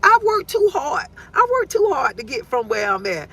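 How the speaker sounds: worked-up outburst. Retold or imitated. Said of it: "I'm like".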